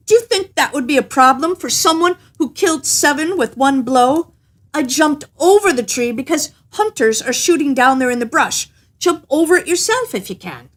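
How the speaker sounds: a hint of a puffed-up little man; bragging little tailor. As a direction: brag boldly to the giant. Tailor brags to giant.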